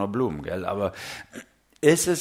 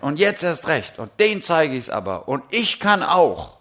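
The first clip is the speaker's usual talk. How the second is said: grim stubbornness. Retold or imitated. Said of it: "mit so einer Verbissenheit".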